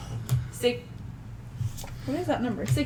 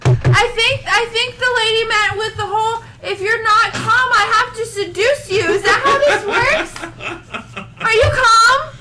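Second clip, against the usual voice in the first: nervous high voice; 6 semitones higher than usual. Pretend.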